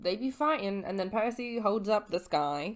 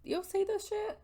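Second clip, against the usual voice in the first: quirky Rachel; 14 semitones higher, 4 dB quieter than usual. Retold or imitated. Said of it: "she's like".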